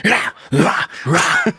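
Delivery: mimicked rock "rah" barks; imitated singer's grunts. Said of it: "what is he doing a couple parts".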